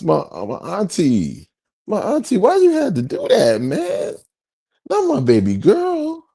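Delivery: high, hammed-up keening over a lost character; mock wailing grief. TV fan mourning a dead character, high hammed-up wail. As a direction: wail it like a fake mourner at a wake.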